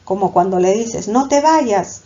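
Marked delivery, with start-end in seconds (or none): 1.1-2.0 mock pleading. Shown as a demonstration. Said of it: "un ruego".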